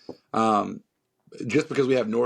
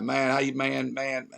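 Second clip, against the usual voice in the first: a light hometown Southern drawl, a bit higher; slipping into the hometown redneck voice; redneck accent; 4 semitones higher than usual. Retold or imitated. Around his father and brother, a hint of a thick Southern accent. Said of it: "I immediately turn into this man".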